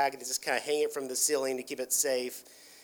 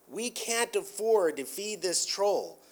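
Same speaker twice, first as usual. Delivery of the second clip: slow, higher, mildly pleading; retold begging; 4 semitones higher, slower than usual. Prince begs Wander for help, mildly pleading. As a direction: retell a prince's plea, drawn out and raised. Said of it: "begs him to help and says".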